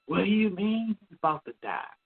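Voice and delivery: high, shrill-free overwrought alarm, imitating sister; dramatic sister. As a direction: ham up the sister's dramatic panic. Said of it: "My sister being dramatic as you".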